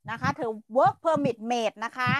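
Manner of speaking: "work permit" said very slowly, word by word; slow emphasis. Shown as a demonstration. Explaining her visa to doubters again, slow and deliberate. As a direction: drag out "work permit" to make the point. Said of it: "repeats visa phrase slowly".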